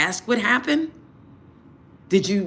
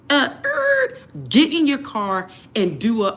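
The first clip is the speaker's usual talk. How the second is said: laughing outburst; 4 semitones higher, 4 dB louder than usual. Real, not acted.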